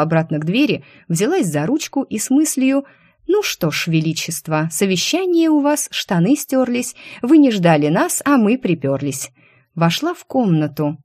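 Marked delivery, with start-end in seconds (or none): 3.3-9.3 cheeky rhyme. Acted. Cheeky mental rhyme before entering.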